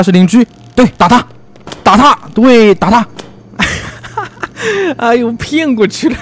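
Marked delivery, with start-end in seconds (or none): 3.6-4.9 put-on high sly cackle after fooling the kids; villain cackle. Villain gloating at fooled kids, high cackle. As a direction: laugh like a villain whose trick worked.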